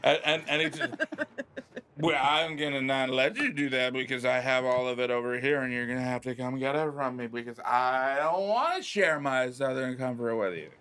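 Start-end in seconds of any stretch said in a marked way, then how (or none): 2.0-10.7 put-on old toad turned woo girl; lightly pitched party-girl voice. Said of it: "He sounds like a woo girl".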